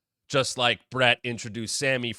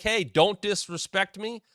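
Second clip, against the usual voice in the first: fired-up Miz; 8 semitones higher than usual. Retold or imitated. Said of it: "a good Miz fired up like".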